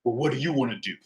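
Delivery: hushed, mouthed question; lightly whispered to his wife; imitated whisper. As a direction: softly mimic a whispered aside. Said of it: "he whispered".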